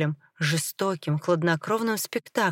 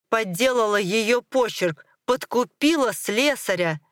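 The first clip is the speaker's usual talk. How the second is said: charges thrown out in a raised pitch; angry accusation; 4 semitones higher than usual. Acted. Husband lists his wife's crimes, angrily accusing. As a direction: hit each accusation harder.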